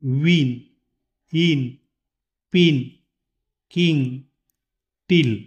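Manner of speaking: "विन" "पिन" "किंग" with a short clipped i; short i demo. Shown as a demonstration. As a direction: keep the i short in each word. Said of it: "यामध्ये ईचा उच्चार". (छोटा इ का उच्चार)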